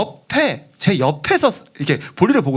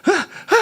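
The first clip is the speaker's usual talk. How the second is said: high mocking laugh bursts; imitated snickering; 13 semitones higher than usual. Prankster hovering behind the praying man, imitated laughing. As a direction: let out short high mock laughs. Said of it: "막 웃으면서 주위에 서성거리고".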